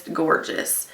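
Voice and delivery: breathy whispered "gorgeous". Real, not acted. Vlogger savouring the lipstick, whispering "gorgeous".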